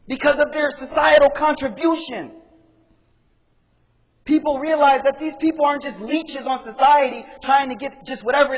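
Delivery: high, driving sermon delivery; impassioned preaching. Real, not acted. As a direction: preach with rising force, punching key words. Preaches at full force.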